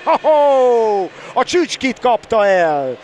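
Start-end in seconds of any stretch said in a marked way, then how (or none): 0.0-1.1 amused chuckling ho-ho; laughing. Real, not acted. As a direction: laugh with delight. Laughing at a nice move.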